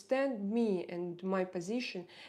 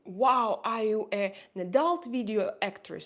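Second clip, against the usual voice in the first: mock surprised question; 4 dB louder than usual. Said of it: "I don't know the intonation, your intonation".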